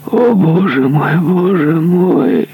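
high, slow anguished moan. Acted. Dying executioner moaning in anguish, high and slow. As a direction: groan to God in despair. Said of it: "стонал палач".

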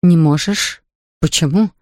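usual speaking voice

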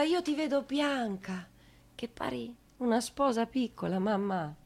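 put-on unborn child's voice. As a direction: speak from inside the womb to mamma. Unborn child speaks to mother. (il bambino non nato parla piano alla madre)

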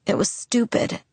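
voiceless, raw-throated whisper; hoarse whisper. Acted. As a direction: breathe it out with a wrecked throat. Hoarse girl after near drowning.

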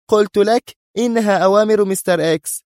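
high-pitched angry insistence. A narrator's reading. Sonia defends herself over Mister X's orders, angry. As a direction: protest hotly, pitched right up. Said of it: "قالت في غضب".

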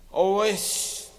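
put-on high, slow drunken voice; slow high slurred order.

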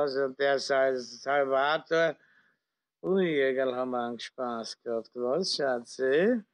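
put-on slurring drunk officer; town drunk. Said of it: "liegt betrunken im Coupé lallend".

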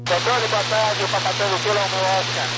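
crackly radio transmission; police radio. Real, not acted. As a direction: voice through a radio handset. Pilot calling tower over radio.

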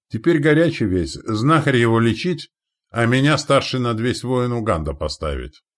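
high, loud, emphatic report; foreign warrior ally. Acted. Ally reporting his new command, foreign warrior. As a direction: report proudly in broken Russian.

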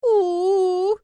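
high loud squealing wail; dragon squealing cry. A narrator's reading. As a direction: squeal like a crying little dragon. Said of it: "верещала Марси". (верещащий плач дракона)

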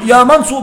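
"يا منصور" with its damma kept on the sad; keeping the damma. Shown as a demonstration. Teacher to students, demonstrating the damma kept in "يا منصور". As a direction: round the u clearly in "يا منصور". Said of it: "ببقاء ضمة الصاد".

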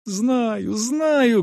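high, anxious insistence; impatient girl. A narrator's reading. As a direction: cut in with high-pitched urgency. Girl brushes off groom's objection.

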